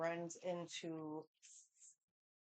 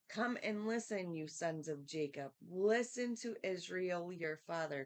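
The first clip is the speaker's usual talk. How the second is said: scripture reading; 4 dB louder than usual. Acted. Reads scripture aloud.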